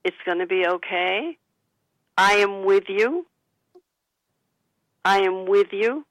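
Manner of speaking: slow, gentle I am with you, calm and steady; calm, slow reassurance. Shown as a demonstration. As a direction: soothe a frightened relative slowly. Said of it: "Take a deep breath".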